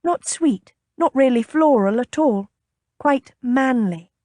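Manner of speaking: high, coaxing sales patter; enticing. A narrator's reading. Lady persuading the captain to try perfume, enticing. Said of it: "she said enticingly".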